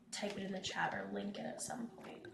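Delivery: soft whispered aside; whispering. Real, not acted. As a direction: drop to a whisper. Aside while promising a link.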